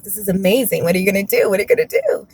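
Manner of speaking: imitating an excited coworker, pitch jumping at the end; retold eager, excited questioning. Coworker's thrilled reaction, acted out.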